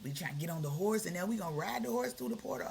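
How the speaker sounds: hyped up, rushing to tell the news; like a friend bursting with news; excited retelling. Retold or imitated. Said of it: "I was like".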